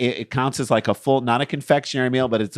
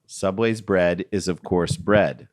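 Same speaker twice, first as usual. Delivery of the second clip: low, slow, smug statement reading; 7 semitones lower, slower than usual. Acted. Reading Subway's official statement to a co-host, smug. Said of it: "taste the smugness in that statement".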